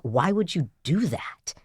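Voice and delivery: slow, half-whispered mock reproach; appalled disbelief. Phone's owner berating the stranger, appalled. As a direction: drop into a drawn-out, hushed question. Owner scolds him for rejecting call.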